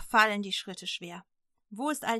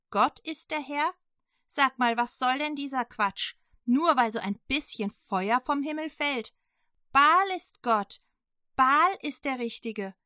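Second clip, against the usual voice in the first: loud, high, furious queen Isebel; a queen ranting at her husband, high and loud; raging queen; 4 semitones higher, 6 dB louder than usual. Acted. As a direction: storm at the king in outrage. Isebel tobt im Palast.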